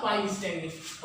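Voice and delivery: stretched out word by word; slow dictation. Shown as a demonstration. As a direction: dictate it slowly to the class. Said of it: "dictating again slowly". (धीरे-धीरे बोलकर लिखवाना)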